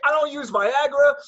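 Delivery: high, loud, slow retold protest; retold emphatic boast. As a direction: proclaim it through amusement, imitating dad. Father's boast retold amid laughter.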